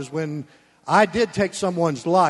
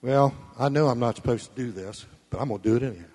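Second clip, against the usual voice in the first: imitated excuse-maker; 6 semitones lower, faster than usual. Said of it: "you don't ever say".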